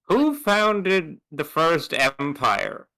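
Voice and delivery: slow, weighty quizzing; pointed question. Acted. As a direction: press the question slowly. Pointed teacherly quiz question.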